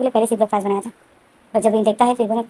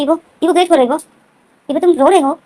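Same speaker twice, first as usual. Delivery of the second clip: higher and louder, urgent pleading; calling through door; 4 semitones higher, 5 dB louder than usual. Retold or imitated. Wing begs Evo to open the door, raised urgent call. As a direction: raise your voice so he hears you through the door.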